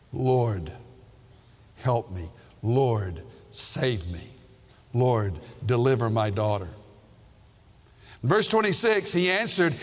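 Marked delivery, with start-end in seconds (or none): 0.1-6.7 desperate plea. Acted. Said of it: "a desperate plea".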